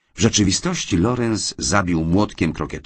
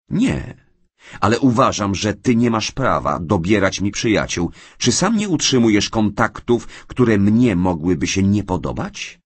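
higher, louder, rising indignation; heated counterattack; 5 semitones higher, 5 dB louder than usual. Acted. Wife turns the accusation on her husband, indignant. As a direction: strike back hard and fast. Mary fights back, accusing John.

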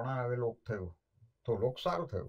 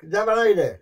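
louder curt order; gruff order; 5 semitones higher, 8 dB louder than usual. Retold or imitated. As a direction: boss him into making tea. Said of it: "બોલે".

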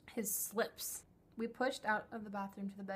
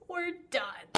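"We're done." higher and louder, final; emphatic; 7 semitones higher, 6 dB louder than usual. Real, not acted. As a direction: slam the door with "We're done.".

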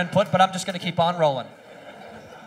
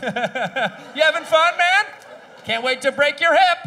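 laughing taunt, slow and higher; mocking taunt; 6 semitones higher, 4 dB louder than usual. Buddy mocking the kid through laughter. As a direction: tease him through a laugh. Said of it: "The whole time you were like".

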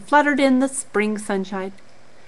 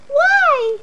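Charlie. Acted. Charlie questions rabbits.

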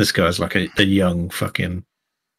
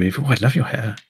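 put-on higher, fawning young tech complimenting hair; gushing Pip; 5 semitones higher than usual. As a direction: gush over her, gossipy and a bit smug. GM plays Pip.

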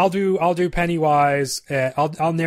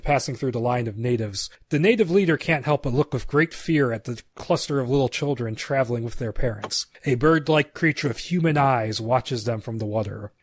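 steady read-aloud of the scene directions; screenplay narration. Acted. Narrating the screenplay to his co-host, steady read. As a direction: set the scene like a script reading.

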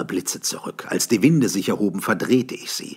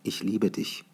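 woman's tender words; 3 semitones higher, 5 dB quieter than usual. A narrator's reading. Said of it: "sagte sie".

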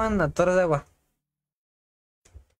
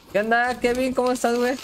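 excited greeting; 6 semitones higher, faster than usual. Real, not acted. Greeting a player cheerfully.

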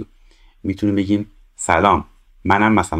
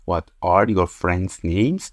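slow model reading; much slower than usual. Shown as a demonstration. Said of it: "teacher reads model question".

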